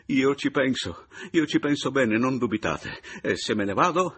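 proudly firm. A narrator's reading. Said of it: "raffermò fieramente Papiano".

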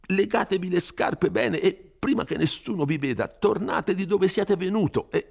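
a frightened priest scolding a rash youth; Don Abbondio, fretful. Acted.

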